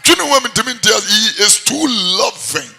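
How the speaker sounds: fervent exclamation. Acted. Preacher exclaims God's love.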